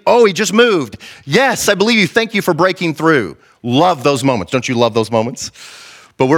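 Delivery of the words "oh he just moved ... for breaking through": higher-pitched, elated thanks; elated praise. Acted. Believers thanking God after the sea crossing, elated praise. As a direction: exclaim it in grateful excitement. Acting out believers celebrating a breakthrough.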